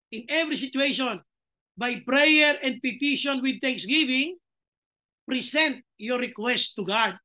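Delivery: slow, deliberate reading of the verse; measured Bible reading from the pulpit; scripture reading. Acted. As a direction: read each phrase of the verse slowly to the church. Reads the Bible verse aloud.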